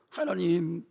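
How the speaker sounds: soft, slow, wondering plea; humble prayer. Acted. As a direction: murmur it in humility. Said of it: "뭐라고 하는 줄 알아요".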